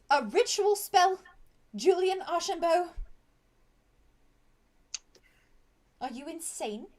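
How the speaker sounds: stern nurse telling off; outraged healer. Acted. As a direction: berate the reckless patient. Healer scolds Julian.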